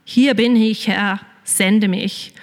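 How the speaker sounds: slow, earnest surrender; devoted answer. Retold or imitated. Believer answering God like Isaiah, slow and sincere. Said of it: "sein wie der Jesaja und sagen".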